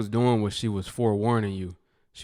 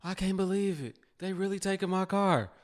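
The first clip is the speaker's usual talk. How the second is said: mock denial; 9 semitones higher than usual. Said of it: "y'all act in denial like".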